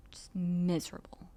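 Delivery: a breathy whisper of misery. Retold or imitated. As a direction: breathe it out unvoiced, despairing. Whispered, then repeated louder.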